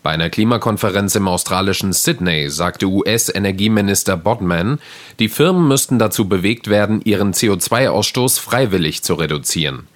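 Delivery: fast, crisp newsreader; news read. Acted. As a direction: read the headline briskly.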